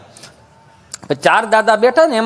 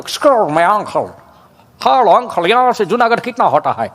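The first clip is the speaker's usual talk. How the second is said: foreign tourist Hindi; slower than usual. Retold or imitated. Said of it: "હું બોલવા માંગુ છું".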